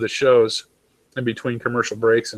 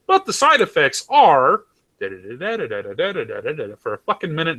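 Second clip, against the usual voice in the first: mock ad disclaimer; 2 semitones higher than usual. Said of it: "you watch an ad".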